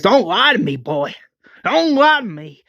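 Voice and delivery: rising high, pressing the warning; threatening. Acted. Tyrese warning Rick at gunpoint, threatening.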